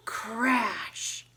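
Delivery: loud storyteller alarm; dramatic excitement. Acted. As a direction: build the drama of the crash. Dramatic tumbling carrots scene.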